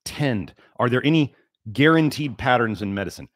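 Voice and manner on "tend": "tend" said once more, firmly stressed with a falling tune; a single deliberate "tend" to drive the point home; emphasized tend. Shown as a demonstration. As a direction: lean on "tend" one last time. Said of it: "I'm gonna emphasize that word".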